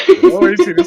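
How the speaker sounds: shouted high and bright; loud high voice. Acted. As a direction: yell it up high. Repeats louder, higher.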